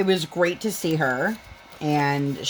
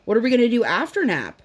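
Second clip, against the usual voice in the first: higher-pitched mimicked kid question; imitated pestering daughter; 6 semitones higher than usual. Mom imitating daughter asking past nap time, pestering. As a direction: lightly play an insistent child. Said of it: "now our daughter, seven thousand times a day".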